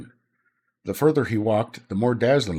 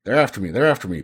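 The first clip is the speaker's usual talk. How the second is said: out of breath; 5 dB louder, faster than usual. Acted. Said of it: "panted Rick".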